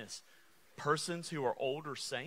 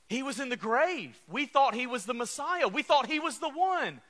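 rising lament; 6 semitones higher, 6 dB louder than usual. Acted. Voicing disciples' despair.

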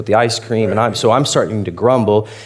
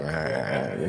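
low, soft "rah, rah"; quiet throwaway imitation of oblivious chatter; mimicking daughter's babble; 10 semitones lower, 13 dB quieter than usual. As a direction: careless little mumble imitating a child. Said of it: "doesn't care".

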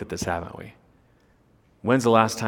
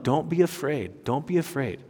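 reassuring angel; 6 dB quieter than usual. Acted. Angel voiced comforting the ladies.

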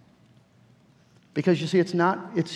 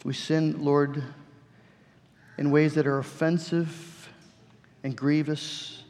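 prayer. Acted. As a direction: pray humbly before the Lord. Closing prayer.

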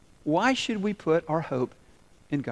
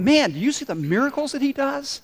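much higher, wide-eyed amazement; amazed crowd; 8 semitones higher than usual. Retold or imitated. Preacher voicing people amazed at Jesus' miracles, excited. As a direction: marvel at the miracles. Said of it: "people are going".

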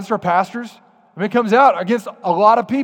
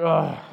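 grumbling ugh; 3 semitones lower than usual. Retold or imitated. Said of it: "muttering things under your breath like".

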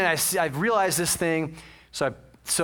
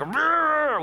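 mock grumbling "rrr", pitched up; grumbling growl; 8 semitones higher than usual. Preacher imitating himself when he's grumbling, mock growl. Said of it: "'cause I'm grumbling".

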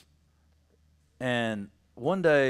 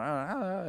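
soft, higher-pitched mock whimpering; imitated child crying; 6 semitones higher, 8 dB quieter than usual. Dad imitating his crying son, mock whimpering. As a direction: whimper lightly like a crying toddler. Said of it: "and he's crying".

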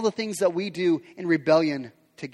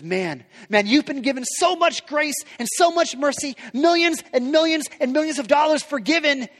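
indignant rebuke; 3 semitones higher than usual. Retold or imitated. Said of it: "This king says".

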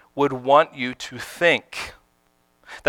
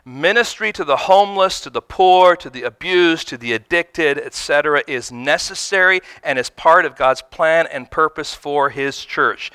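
each item stressed, "homeless" and "poor" raised; emphatic; 2 semitones higher, 3 dB louder than usual. Real, not acted. Pastor insists to the congregation, emphatic and clear. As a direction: spell it out so no one misses it. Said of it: "I say this emphatically and clearly".

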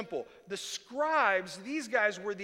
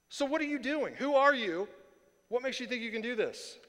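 confrontational; 5 semitones higher, 4 dB louder than usual. Acted. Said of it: "a confrontational tone".

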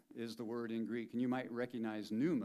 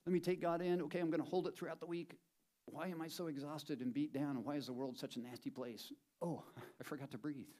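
mock churchgoer; 5 semitones higher than usual. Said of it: "we come to church on Sunday and we go".

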